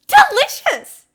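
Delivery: high, loud, slow swooning cry; villain girl thrilled by blood; creepy delight. Acted. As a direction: savour the word like a vampire. Toga swoons over blood.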